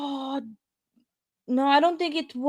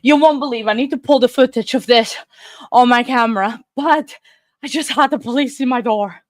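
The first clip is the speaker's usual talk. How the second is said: out of breath; 4 dB louder than usual. Real, not acted. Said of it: "completely out of breath".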